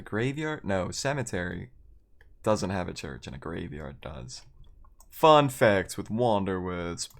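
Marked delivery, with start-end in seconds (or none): 5.1-7.1 mock show host. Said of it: "remember when I was like".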